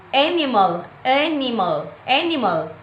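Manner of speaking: "animal" stressed on AN, rest unstressed; first-syllable stress. Shown as a demonstration. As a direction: lean on the AN of "animal", let the rest fall. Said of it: "primary stress is on the first syllable".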